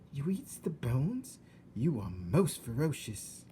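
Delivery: slow, whispered awe; awed whisper. Acted. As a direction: marvel at him under breath. Mig in awe.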